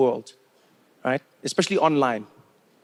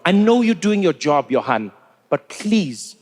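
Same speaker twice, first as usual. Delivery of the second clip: pleading; 2 semitones lower, slower than usual. Retold or imitated. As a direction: press the word "know" harder, begging.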